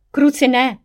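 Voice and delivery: loud, high, desperate shout; desperate yell. Acted. Devil yells as fire nears Jenny's room. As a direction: cry out in panic. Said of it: "zařval jsem zoufale".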